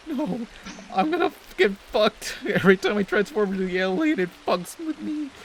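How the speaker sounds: high-pitched mock wail; whiny, hammed-up terrified protest; terrified, crying Ben. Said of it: "terrified and crying on the floor".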